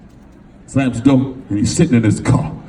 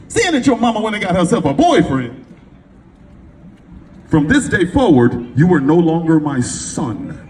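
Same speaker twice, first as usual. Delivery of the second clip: stern father's verdict; 4 semitones higher than usual. Retold or imitated. Father's cold verdict to son.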